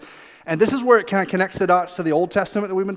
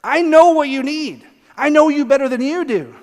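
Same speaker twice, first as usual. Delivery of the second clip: high, slow, earnest reassurance; heartfelt, swelling promise; tender assurance; 7 semitones higher, 6 dB louder than usual. Acted. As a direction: draw it out like a parent soothing a child. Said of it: "God, ever so gently, goes".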